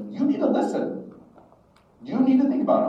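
urgent plea, pitch jumping up high; serious insistence. Retold or imitated. Mentor grabs young man by the shoulders, insistent. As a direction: press the point home, imitating an earnest mentor. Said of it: "Oh, he's serious".

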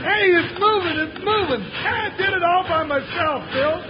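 delighted exclamation, bubbling over; proud excitement. Acted. Sidekick gets the train moving by himself, proudly excited. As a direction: crow over your own success.

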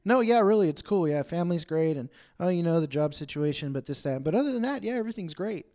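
bright and evasive, covering up; mock upbeat brush-off; fake cheerful. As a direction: insist everything's fine a bit too eagerly. Faking fine, evasive answer.

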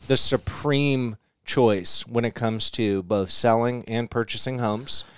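smooth salesman pitch voice; mock ad read. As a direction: sell it like a commercial.

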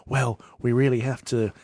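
halting, earnest late-night lecturer; science programme presenter. Acted. Co-host imitating a long-haired science presenter, hesitant lecture voice. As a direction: trail off softly like an old science broadcast. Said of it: "late night slash early morning science programs".

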